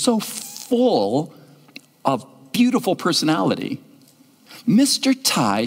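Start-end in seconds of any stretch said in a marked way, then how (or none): 4.7-5.7 eager, slow call of his name; a child bursting to speak; enthusiastic. Retold or imitated. Girl eagerly calling the pastor by name. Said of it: "she said with enthusiasm".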